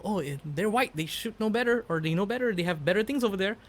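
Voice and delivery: a hint of a know-it-all Westerner; quoting white folk. Mocking how white folk talk about Asia, lightly voiced. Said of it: "the white folk always, you know".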